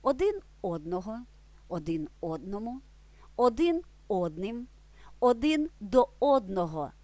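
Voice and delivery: Один одного with одного stressed on the first syllable. Shown as a demonstration. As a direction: hit the first syllable: одного, одному, одним. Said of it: "наголос переходить ... на перший склад". (наголос на першому складі: один одного)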